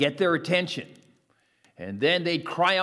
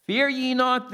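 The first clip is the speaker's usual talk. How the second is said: proclaiming; 8 semitones higher than usual. Acted. Jesus' comfort, proclaimed.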